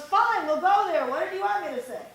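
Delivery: mock husband giving in, loud and high; exasperated husband. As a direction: throw up your hands in exasperation. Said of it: "And he goes".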